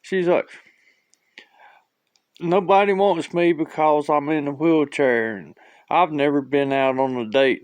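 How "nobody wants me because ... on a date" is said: higher-pitched imitation of a crying woman; lightly hammed-up self-pity; mock tearful complaint. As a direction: wail it a little, for comedy. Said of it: "started crying and just bawling".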